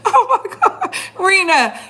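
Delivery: giggling as she calls out; real laughter in the voice; laughing. Real, not acted. Still laughing at the joke.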